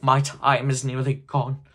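loud, slow urgent warning; drawn-out spectral cry. A narrator's reading. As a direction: press the warning with ghostly weight. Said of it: "cried the ghost".

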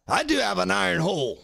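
high answering voice; Optimus reply. Pretend.

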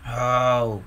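a low reluctant groan. Acted. Scruff groans at having to hurry on: low groan. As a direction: groan as if tired of it all. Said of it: "groaned Scruff".

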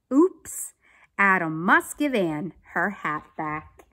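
put-on clear, emphatic children's story narration; read-aloud story. A narrator's reading. Teacher reading a police story to children, animated narration. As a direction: read it out carefully for young listeners. Reads a picture book aloud.

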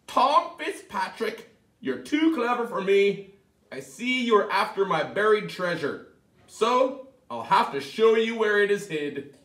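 high, grudging little-man voice; high leprechaun voice. Acted. The leprechaun giving in to Tom, high grudging. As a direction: concede defeat in a squeaky voice.

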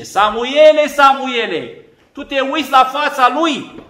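gently chiding summons; voice of God. Acted.

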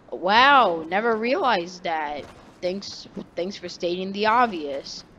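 retold sarcasm with a drawn-up "Wow"; mock amazement at being told the obvious; sarcastic comeback. Kid answers a classmate who called them tiny, sarcastic.

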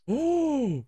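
very high, drawn-out "oh"; astonished gasp. Real, not acted. Gamer amazed at what turned up, astonished high gasp. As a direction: let out a high squeal of amazement. Gamer finds an incredible surprise.

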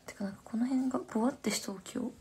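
unvoiced whispered aside; hushed hair complaint. Real, not acted. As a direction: murmur it to herself. Aside about her hair.

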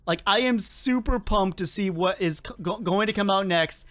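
tripping over words from excitement; stuttering. Real, not acted. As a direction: stumble and restart the words. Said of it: "I'm actually stuttering".

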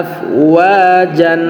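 আফওয়াজান with the final alif drawn out slowly; stretched long vowel. Shown as a demonstration. Teacher to students, drawing out the alif in আফওয়াজান. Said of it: "এখানে আমরা এক আলিফ টানবো".

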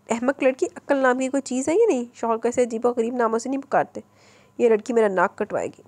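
mild exasperated scolding mother; a hint of a rueful mother; regretful scolding. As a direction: tut at the silly girl, lightly. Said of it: "अफसोस करने वाले अंदाज में बोली".

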